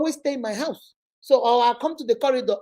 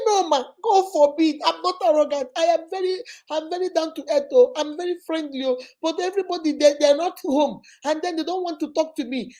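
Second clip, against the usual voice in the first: higher, insistent protest to her mother; earnest pleading; 3 semitones higher than usual. Retold or imitated. Daughter swearing to mama she isn't arrogant, pleading. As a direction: plead your innocence, wide-eyed.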